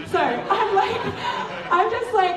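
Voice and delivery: high laugh through the words; talking through real laughter. Real, not acted. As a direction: giggle out the lead-in. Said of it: "That's my rant".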